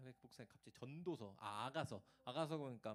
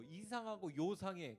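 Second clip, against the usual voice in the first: spooky mock tone; 6 semitones higher, 7 dB louder, slower than usual. Mocking a strange message.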